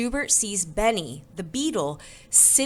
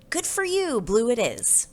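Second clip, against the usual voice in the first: high-pitched lift on praise; encouraging mom; 6 semitones higher than usual. A narrator's reading. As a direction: cheer on a child's choice. Mom cheers the child's choice.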